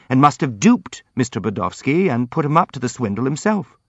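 lively, protesting prince character; earnest, indignant prince. Acted. Prince answers his accusers about Pavlishev, earnest and indignant.

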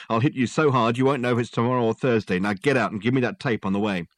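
a police sergeant losing patience, laying down the law; annoyed cop threatening a meddling detective; angry sergeant. Acted. Gilks warning Dirk off.

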